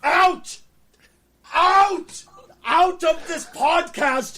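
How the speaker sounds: high, loud mock yell; mock banishing shout. Host pretends to kick co-host off the podcast, loud mock yell. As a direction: throw him out in mock outrage.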